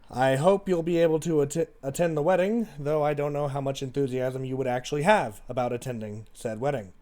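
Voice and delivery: measured letter reading with pauses; reading letter aloud. Acted. Sister's letter to her jailed sibling, read aloud.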